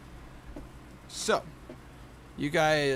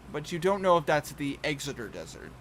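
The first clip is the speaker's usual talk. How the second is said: usual speaking voice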